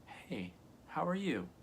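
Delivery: bright, slow, soft "Hey, how are you?"; happy greeting. Shown as a demonstration. Showing viewers a happy hello, cheerful. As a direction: greet them like you're glad to see them. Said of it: "if you're happy".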